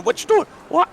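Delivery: very high squawky parrot voice; high parrot mouthing off in Brooklyn style; squawking parrot. Acted. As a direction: screech it like an angry parrot. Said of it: "the bird's gonna respond there in kind".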